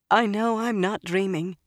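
put-on shaky, trembling young woman; quivering voice. A narrator's reading. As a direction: quaver through it, barely holding together. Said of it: "she said in a quivering voice".

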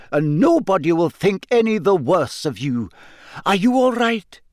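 high, earnest reassurance; anxious professor. A narrator's reading. Professor steadying Harry before the task, anxious.

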